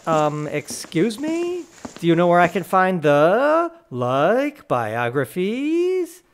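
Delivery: put-on girl quote. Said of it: "this girl came in and was like".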